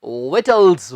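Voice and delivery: विटल्स as VIT-ulz, silent C; model for repeating. Shown as a demonstration. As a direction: give विटल्स for learners to echo. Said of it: "आप भी बोलकर बताएं".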